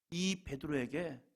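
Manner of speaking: normal talking voice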